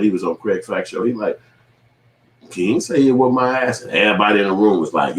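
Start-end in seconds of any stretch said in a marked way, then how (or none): 2.5-3.8 higher-pitched mock disbelief; indignant denial. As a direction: imitate someone refusing to believe it. Retelling Corey's indignant denial.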